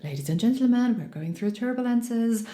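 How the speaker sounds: even, unhurried captain's voice; a lightly voiced calm airline captain; calm pilot announcement. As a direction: reassure the cabin like a relaxed pilot. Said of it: "they sound really calm and reassuring".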